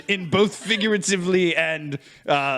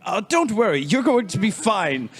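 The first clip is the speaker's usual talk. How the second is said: higher-pitched, showy reassurance; hammed-up doctor voice, pitched up; self-styled doctor professor; 5 semitones higher than usual. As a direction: reassure them like a self-proclaimed expert. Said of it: "be like".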